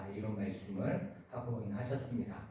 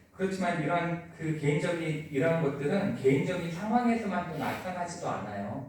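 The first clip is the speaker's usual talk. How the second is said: rising preaching voice; 5 semitones higher, 4 dB louder than usual. Real, not acted. Sermon builds to world suffering.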